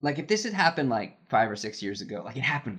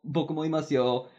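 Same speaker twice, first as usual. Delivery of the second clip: higher-pitched, light Japanese interjection; joking interjection; 6 semitones higher than usual. Retold or imitated. Ignored colleague speaks up to the director, joking interjection. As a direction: politely pipe up as if amused. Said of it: "I'm laughing about it".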